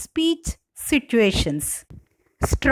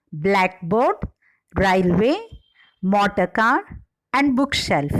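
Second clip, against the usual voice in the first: BLACKboard, RAILway, MOTOR car, BOOKshelf; first-word stress in blackboard, railway, motor car, bookshelf; 3 semitones lower than usual. Shown as a demonstration. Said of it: "the primary stress on first word are".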